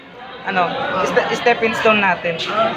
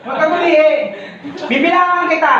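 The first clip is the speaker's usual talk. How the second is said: laughing; 5 semitones higher than usual. Real, not acted.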